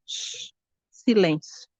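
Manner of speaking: soft, slow shush into silence. Shown as a demonstration. God shows her how to be silent, softly shushing. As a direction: hush the listener gently. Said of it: "faça isso, ó".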